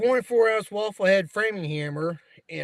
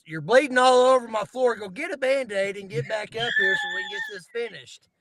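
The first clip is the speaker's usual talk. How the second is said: gruff shout; 4 semitones higher, 4 dB louder than usual. Retold or imitated. Cranky boss yelling down at him.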